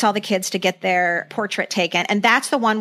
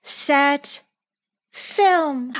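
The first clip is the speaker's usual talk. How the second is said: mock scatterbrained photographer; 6 semitones higher, much slower than usual. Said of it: "keeps going".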